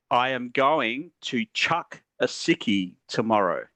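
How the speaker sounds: slow, deliberate model line; Australian slang demo. Shown as a demonstration. Teacher modelling the phrase slowly. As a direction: say it slowly for them to copy. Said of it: "say it one more time then".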